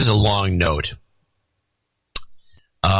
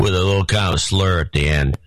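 lightly slurred Southern accent; drunk Southern accent. Shown as a demonstration. Host showing how to read the note, mild drunk Southern accent. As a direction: demonstrate a tipsy Southern slur. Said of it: "just a drunk sound, so you can just do a Southern accent".

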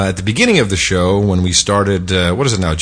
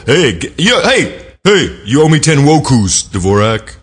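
street hustler voice; 4 semitones higher than usual. Pretend. Calling out a debtor in a put-on voice.

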